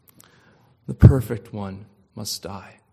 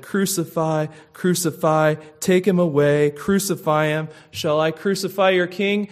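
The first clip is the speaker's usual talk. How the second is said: retold shout; 4 semitones higher, 4 dB louder than usual. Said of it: "he shouted".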